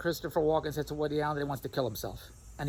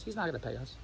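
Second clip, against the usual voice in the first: softer, lower imitation of the wife; mild doubtful wife; 4 semitones lower, 7 dB quieter than usual. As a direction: mutter it like a skeptical wife. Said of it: "Then Andrea says".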